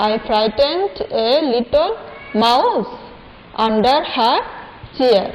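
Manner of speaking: "I frightened a little" stretched out very slowly; very slow recitation. Shown as a demonstration. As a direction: drag "I frightened a little" syllable by syllable. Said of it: "আমি আবার পড়িয়ে দিচ্ছি তোমাদেরকে".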